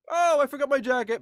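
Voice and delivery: put-on high, loud child voice; kid voice. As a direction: blurt it like a kid. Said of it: "one of them just goes".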